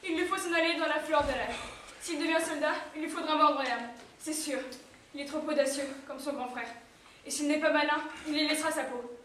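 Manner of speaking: sad. Acted. Mother laments her son leaving.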